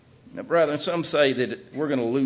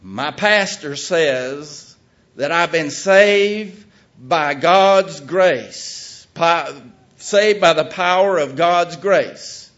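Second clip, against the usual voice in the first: reading t-shirt; 4 semitones higher, 9 dB louder, much slower than usual. Retold or imitated. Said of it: "and the t-shirt says".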